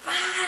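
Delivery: high-pitched imitated "ah" of anger; frustrated cry. Being who wanted to punch her, mock frustrated cry. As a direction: mimic a thwarted, angry yell. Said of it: "So he just went".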